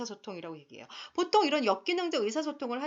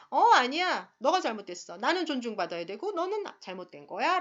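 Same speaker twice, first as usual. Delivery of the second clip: blaming retort; 2 semitones higher, 5 dB louder than usual. Retold or imitated. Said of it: "그런데 비난형은".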